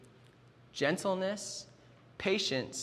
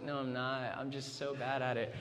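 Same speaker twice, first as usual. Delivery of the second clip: mock self-deprecation; 3 semitones lower, 8 dB quieter than usual. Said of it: "And she's like".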